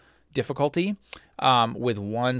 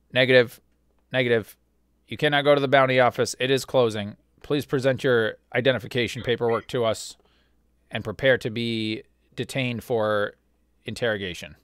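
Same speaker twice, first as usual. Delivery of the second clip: metallic voice. Acted. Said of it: "you kinda hear that metallic voice coming out of the helmet".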